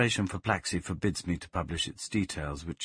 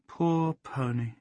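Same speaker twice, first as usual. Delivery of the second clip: slow, higher pitying sigh; mild pity; 5 semitones higher, slower than usual. Acted. Plaxi pitying the dead pony, slow and sad. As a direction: linger sadly on it.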